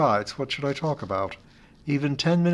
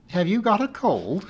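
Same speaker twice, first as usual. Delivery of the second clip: higher voiced friend, asking gently; solicitous Amy; 8 semitones higher than usual. Friend on the phone asks with gentle concern. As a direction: friend checks on a cracked-voiced teacher, solicitously. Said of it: "she asked solicitously".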